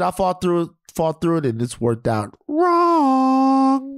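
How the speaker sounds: high, slow drawn-out letdown; comic wrong ending. Shown as a demonstration. Man telling the podcast cohost it went wrong, high and slow. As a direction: stretch it out high and pained. Contrasting outcomes of fighting through.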